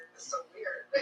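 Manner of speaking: high, laughing remark. Real, not acted.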